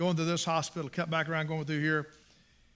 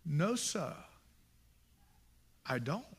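soft, lowered acted answer; quiet reply; 2 semitones lower, 8 dB quieter, slower than usual. Man at the bus stop answering the preacher, quiet reply. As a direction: answer softly, with a pause, as the retold stranger.

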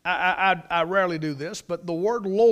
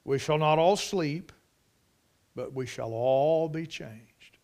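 measured, dropping low and slow on the second half; solemn scripture reading; 3 semitones lower, slower than usual. Real, not acted. Preacher quoting Paul's mystery to the church, solemn. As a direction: let the verse sink in gravely.

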